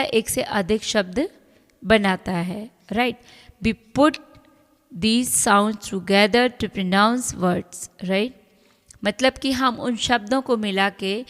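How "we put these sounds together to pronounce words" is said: reading the rule aloud very slowly. Acted. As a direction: dictate each word slowly to the class. Reads English text slowly. (नियम को बहुत धीरे-धीरे पढ़कर सुनाना)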